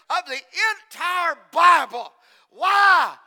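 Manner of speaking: loud rising question and answer; escalating shouted point; preaching shout. Real, not acted. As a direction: drive it up and hammer it.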